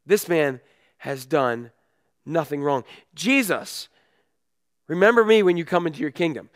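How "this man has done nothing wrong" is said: "This man has done nothing wrong" slow and weighted, each word set apart; slow emphasis. Shown as a demonstration. Pastor repeats the thief's words slowly so they sink in. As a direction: lean on every word, slowly. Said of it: "But this man has done nothing wrong".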